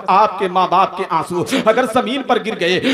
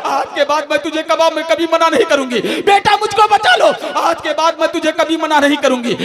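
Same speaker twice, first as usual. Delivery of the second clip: screaming plea; 5 semitones higher than usual. Retold or imitated. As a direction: beg for your life at the top of your voice. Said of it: "चीखती रही". (जलती माँ की ऊँची, ज़ोरदार चीखती गुहार)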